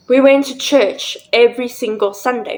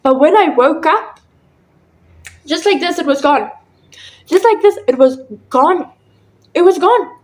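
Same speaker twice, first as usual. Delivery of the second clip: high, emphatic wonder; real amazement; 5 semitones higher than usual. Real, not acted. Telling viewers it vanished on waking, amazed. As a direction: marvel at it, pitch jumping up.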